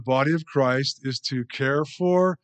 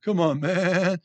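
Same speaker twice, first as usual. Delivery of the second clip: higher, laughing through a mock protest; laughing mock plea; 5 semitones higher, 3 dB louder, slower than usual. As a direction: replay the joke while cracking up. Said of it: "my earlier little joke about the".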